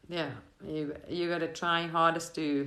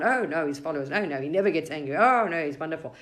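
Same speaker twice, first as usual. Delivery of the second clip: quick, eager protests from devoted disciples; fervent followers; 5 dB louder than usual. Retold or imitated. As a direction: rush to defend the master, a bit louder. Disciples defending the guru.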